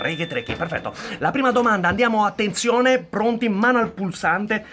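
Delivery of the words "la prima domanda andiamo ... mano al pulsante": punchy quiz host build-up; rally the contestants, big energy; showy game show host. Acted. Host calls the question. (conduttore di quiz enfatico)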